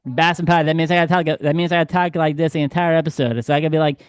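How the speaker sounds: badly faked New England accent; bad Boston accent. Podcast host shows how the whole episode would sound, bad Boston accent. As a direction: talk in a hammy, botched Boston accent. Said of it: "worst New England accent I've ever heard".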